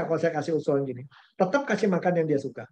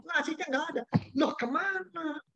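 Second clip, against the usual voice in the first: surprised; 9 semitones higher, 6 dB quieter than usual. Retold or imitated. Finding the rice missing.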